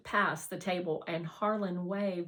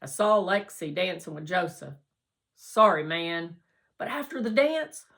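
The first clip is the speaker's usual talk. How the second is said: mouth full; 5 semitones higher, 8 dB louder than usual. Acted. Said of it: "talking with his mouth full".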